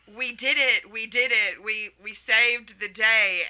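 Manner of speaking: lightly acted cheer of victory; a touch of victorious excitement; mock celebration. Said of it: "where we're like".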